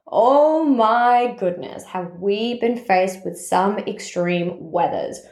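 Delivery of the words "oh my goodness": drawn-out exclamation. Real, not acted. Exclaims about extreme weather.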